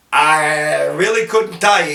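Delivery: a hint of a boozy old barfly, dragging the opening; old drunk guy. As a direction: imitate an old drunk pondering, slightly low. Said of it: "this old drunk guy in the corner".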